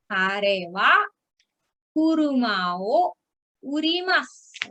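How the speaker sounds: phrase by phrase with long pauses. Shown as a demonstration. Teacher builds sentence piece by piece.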